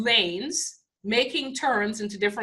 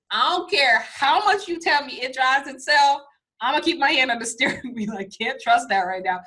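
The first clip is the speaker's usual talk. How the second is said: emphatic refusal; 5 semitones higher, 5 dB louder than usual. Retold or imitated. Retelling her own reaction.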